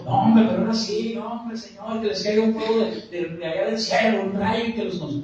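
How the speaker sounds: hammed-up call for revenge; mock vengeful prayer. Mock angry prayer for fire.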